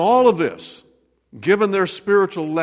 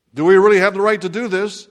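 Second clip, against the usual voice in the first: anxious doubting workers; 4 semitones higher, 8 dB louder, faster than usual. Retold or imitated. Workers doubting under pressure.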